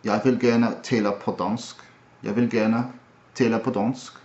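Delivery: Jeg vil gerne tale på dansk in a Danish accent. Shown as a demonstration. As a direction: speak it like a Dane. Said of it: "so Danish is".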